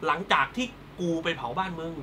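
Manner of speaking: hammed-up melodramatic gloating; Thai soap heroine. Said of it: "ทำตัวเป็นนางเอกละครไทย".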